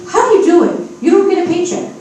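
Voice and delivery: high, loud, incredulous daughter; imitating daughter. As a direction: play the baffled daughter demanding answers. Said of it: "my daughter said to me".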